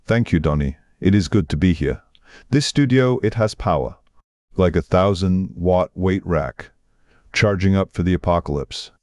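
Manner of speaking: put-on Arnold-style Austrian accent; exaggerated Austrian accent. Screen titan thanks the radio host in exaggerated Austrian accent. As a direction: play up a booming Austrian accent. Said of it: "exaggerated Austrian accent".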